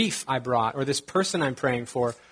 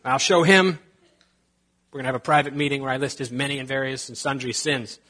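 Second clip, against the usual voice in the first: mock gossiping churchgoer. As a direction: play a catty, offended churchgoer. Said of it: "we're not gonna be like".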